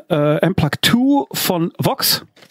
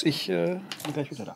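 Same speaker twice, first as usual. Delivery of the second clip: fading off as he walks away; trailing off into the distance from the mic; moving away from mic; 14 dB quieter than usual. Real, not acted. Leaves to fetch something. (sich vom Mikrofon entfernend)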